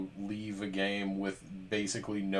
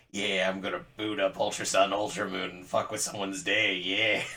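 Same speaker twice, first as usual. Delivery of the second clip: giggly sneering imp; lightly voiced little gremlin. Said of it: "that's the gremlin voice".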